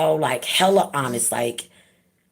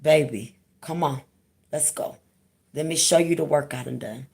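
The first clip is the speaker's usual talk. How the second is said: tender reassurance. Retold or imitated. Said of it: "tell her".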